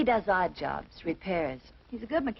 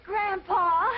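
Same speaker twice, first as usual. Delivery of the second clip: high, louder delighted call; excited greeting; 10 semitones higher, 4 dB louder than usual. Real, not acted. Granddaughter greeting her grandpa at the depot, delighted. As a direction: call out in joy at seeing him.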